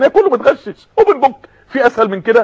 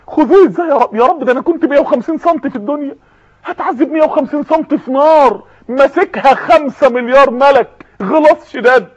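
hoch, verzweifeltes Betteln bei Gott; flehender Sünder; 3 semitones higher than usual. Acted. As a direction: jammernd um Gnade flehen, ich kann nicht. Sünder fleht weiter.

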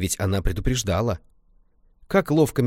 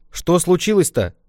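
higher, louder worried asking; concerned question; 8 semitones higher, 6 dB louder than usual. Acted. Grandma asks the crying girl, worried question. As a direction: ask what's wrong, concerned.

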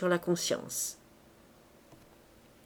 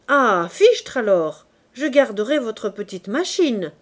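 mild laughing; 2 semitones higher, 7 dB louder than usual. Acted. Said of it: "reprit Lantier en riant".

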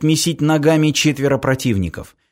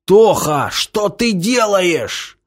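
high, drawn-out question; distraught cry; 6 semitones higher, slower than usual. Acted. Semyon to his brother, distraught cry. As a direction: call to him in dismay.

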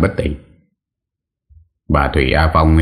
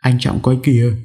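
startled cry; 9 semitones higher than usual. Acted. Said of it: "la lớn".

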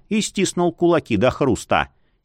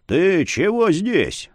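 surprised; 4 semitones higher, slower than usual. Acted. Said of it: "удивился он".

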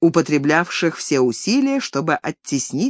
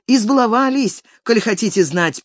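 higher squeak; squeaky; 7 semitones higher than usual. A narrator's reading. Clerk Agey squeaking to the steward. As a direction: squeak it out eagerly. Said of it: "пискнул Агей Данилович".

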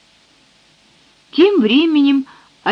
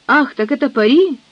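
surprised exclamation; 3 semitones higher than usual. Acted. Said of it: "хором воскликнули девицы".

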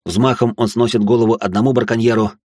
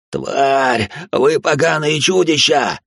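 mock yell; 6 semitones higher, much slower than usual. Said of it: "орал он".

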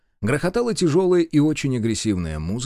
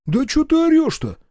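much higher, louder snarl; snapping back; 6 dB louder than usual. Acted. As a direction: bite back at the shouter. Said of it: "огрызнулся первый". (огрызнуться)

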